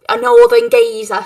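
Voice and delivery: Cockney-sounding northern geezer; Cockney accent. Acted. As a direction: say it with a Cockney twang. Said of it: "saying northern geezer in a Cockney accent".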